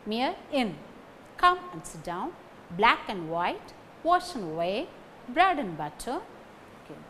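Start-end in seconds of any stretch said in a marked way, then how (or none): 1.4-6.2 "and" reduced to a light n; no stress on "and", just an n; weak "and". Shown as a demonstration. Teacher repeating conjunction examples, weak "and". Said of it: "and becomes n".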